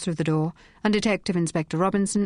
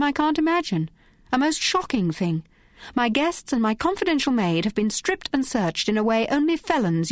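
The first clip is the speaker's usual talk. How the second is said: lightly voiced outraged hotel guest, higher; a hint of an indignant lady; 3 semitones higher than usual. Phryne scolding the inspector, indignant lady voice. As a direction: play the offended lady, rising in pitch.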